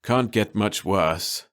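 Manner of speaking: slow, sighing realtor; weary sigh. Acted. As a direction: let it out on a tired breath. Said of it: "sighed one realtor".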